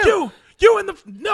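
loud, high screamed imitation of a singer. Imitating singer screaming at a fighter, high shout. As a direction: yell it out, singling someone in the crowd. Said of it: "He's, like, screaming at the guy".

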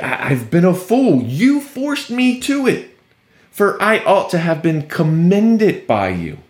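lightly acted sarcastic grievance. Paul answering the church he planted, a bit sarcastic. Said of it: "starting to get a bit sarcastic with them".

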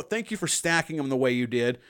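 understated, dry sarcasm; sarcastic thanks. Real, not acted. Thanking co-host for gruesome photo order, sarcastically. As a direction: thank them without meaning a word. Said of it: "I'm being so fucking sarcastic".

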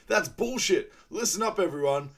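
imitating Hansel calling out the villain; Hansel quote. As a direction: blurt it out as Hansel, hammed-up. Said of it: "he goes".

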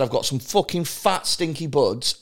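offhand Scouse dealer's pitch; lightly acted Scouse accent, selling weed. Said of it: "the power of accents".

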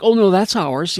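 mock greedy executive. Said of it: "it was like".

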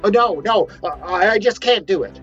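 high, loud, stammering panic; flustered refusal. Acted. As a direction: stumble over your excuses in a rush of nerves. Prophet refusing again, fleeing.

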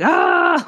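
high-pitched, drawn-out "ahh"; retold exasperated cry. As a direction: let out an imitated cry of losing it. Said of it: "all I did was go, like".

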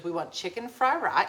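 put-on ordering with "fry rye" in a copied Chinese accent. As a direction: parrot the waitress's Chinese accent, dropping final consonants. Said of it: "I'm saying it like she's saying it".

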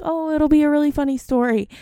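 high, light, breezy husband imitation; mock husband voice. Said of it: "my husband was all like".

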